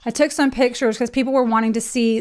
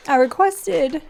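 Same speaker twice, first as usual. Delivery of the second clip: tearful; 4 semitones higher than usual. Real, not acted. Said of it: "I'm gonna cry".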